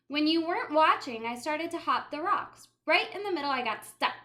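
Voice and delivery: excited narration. A narrator's reading. Tense creek adventure.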